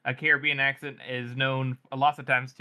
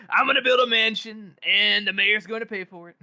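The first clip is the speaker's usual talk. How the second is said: laughing mock villain boast; 7 semitones higher, 3 dB louder than usual.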